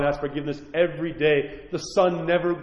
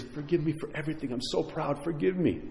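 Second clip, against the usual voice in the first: begging; 10 dB quieter than usual. A narrator's reading. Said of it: "he begs his forgiveness".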